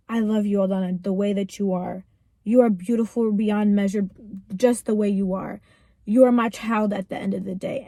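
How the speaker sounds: low-pitched, mildly tender retelling of loving words; gentle reassurance. Retold or imitated. Voicing God's loving reassurance.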